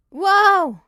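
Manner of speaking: high, loud startled whoa; sudden high loud whoa; surprised whoa. Real, not acted. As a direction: blurt it out in surprise.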